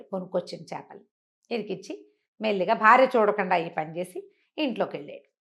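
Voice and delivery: plain reading voice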